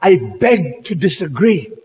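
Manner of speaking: steady, deliberate refusal; firm voice. Acted. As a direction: stand your ground, slowly and firmly. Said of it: "with a very firm voice".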